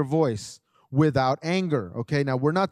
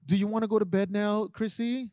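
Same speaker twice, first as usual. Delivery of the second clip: overly polite ask; 4 semitones higher than usual. Retold or imitated. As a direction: coax the child gently, as if she gets to choose. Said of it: "we want to be so polite".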